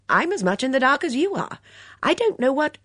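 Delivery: crisp lady, cut off mid-sentence; brisk, then stop short; brisk older lady. Acted. Miss Blacklock voiced.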